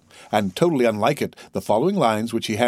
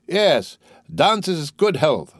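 higher-pitched, drawn-out hearty toast; drunken toast; 7 semitones higher, much slower than usual. Acted. Drunkard toasting his friend Dantès, hearty and slow. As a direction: toast merrily, stretching the words.

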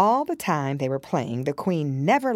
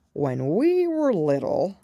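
calmer, still sobbing; 3 semitones higher, slower than usual. A narrator's reading. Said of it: "more calmly, though still sobbing".

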